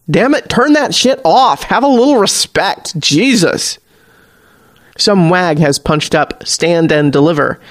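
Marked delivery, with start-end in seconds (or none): 0.1-3.8 higher-pitched, annoyed bartender; exasperated order. A narrator's reading. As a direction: snap it out, fed up with the crowd. Bartender angrily orders the music off.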